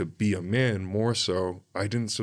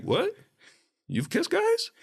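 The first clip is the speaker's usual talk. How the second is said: high, incredulous squeal of surprise; shocked, voice shooting way up; retold disbelief; 4 dB louder, slower than usual. Own shocked reaction retold.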